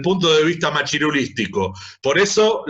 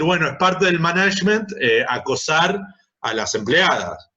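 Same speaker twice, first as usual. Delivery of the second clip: mock boss. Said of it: "se educa a los jefes a decir".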